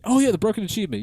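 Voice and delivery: put-on high creaky old man; old man voice, pitched high. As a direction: play a rickety old man. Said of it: "my voice is starting to hurt".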